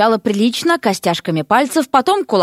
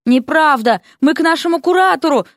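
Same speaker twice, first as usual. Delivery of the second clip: higher, raised objection; insistent announcement; 8 semitones higher than usual. A narrator's reading. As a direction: announce it over his shoulder. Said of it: "объявила тем временем Василиса". (громко заявляя)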